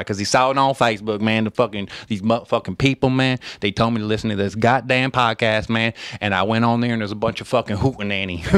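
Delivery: lightly voiced Southern character; Southern Facebook guy. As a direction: grumble like a Southerner, a hint of twang. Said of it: "Southern Facebook guy".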